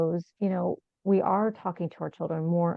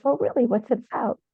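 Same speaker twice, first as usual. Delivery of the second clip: higher and louder, retelling a stranger's interested question; curious surprise; 5 semitones higher, 4 dB louder than usual. Retold or imitated. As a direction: mimic a passerby perking up with curiosity. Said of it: "And she said".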